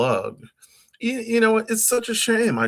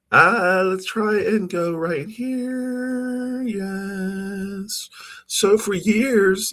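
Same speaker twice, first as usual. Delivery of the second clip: very high effect voice; pitch-shifted voice; 6 semitones higher than usual. Shown as a demonstration. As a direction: talk through a pitch-up effect. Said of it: "work on my voice".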